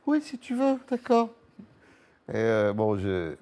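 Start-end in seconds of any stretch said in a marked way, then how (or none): 0.1-1.3 high, breezy teen voice imitation; mimicking his teenage son. Father mimics his teenage son's casual agreement, higher put-on voice. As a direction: toss off the teen's easy yes in a put-on higher voice.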